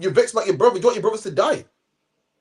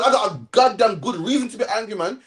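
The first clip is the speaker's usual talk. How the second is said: complaining Jonah; 3 semitones higher than usual. Retold or imitated. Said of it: "Jonah said, Jonah said".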